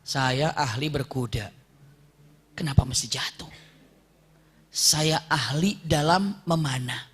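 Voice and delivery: drawn-out, hushed musing to oneself; pondering. Acted. Fallen rider wondering about his own skill, slow pondering.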